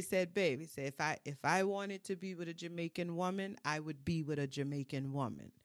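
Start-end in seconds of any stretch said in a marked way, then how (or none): 0.3-0.6 attempted Jamaican accent, quoting a boyfriend; amateur imitation of a Jamaican accent; bad Jamaican accent. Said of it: "this is my horrible Jamaican accent". 0.9-5.5 lightly attempted Jamaican accent; amateur Jamaican accent, quoting him; bad Jamaican accent. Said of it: "this is my horrible Jamaican accent".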